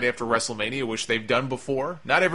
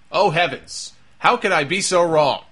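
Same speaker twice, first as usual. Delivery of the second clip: hammed-up dismay, a bit louder; mock shame; 4 semitones higher, 5 dB louder than usual. Podcaster mocks fans correcting a name, hammed-up dismay. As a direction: pretend to be mortified. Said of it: "mock contrition after correction".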